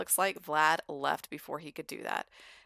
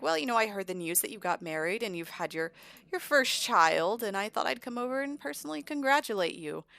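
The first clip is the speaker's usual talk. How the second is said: lightly voiced smooth-talking visitor; 5 semitones higher than usual. Vlad congratulates rival Caleb, mildly ingratiating. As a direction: excuse rising higher as it goes.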